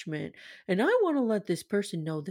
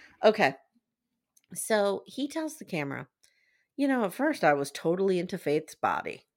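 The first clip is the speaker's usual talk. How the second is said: ordinary talk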